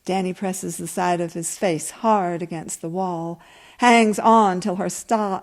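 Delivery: calm, even reading of a story; story narration. A narrator's reading. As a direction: read it like an author at a reading. Reads her story aloud.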